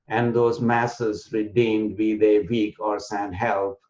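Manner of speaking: slow, strongly metered verse; anapest poem recital. Shown as a demonstration. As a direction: draw out the stressed beats like poetry. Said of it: "in a poetic form".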